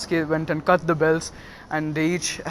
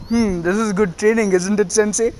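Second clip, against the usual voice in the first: higher, lilting mock innocence; mock-innocent taunt; 4 semitones higher than usual. Pupil to his trapped sensei, mock-innocent taunt. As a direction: tease with a pretend-innocent question.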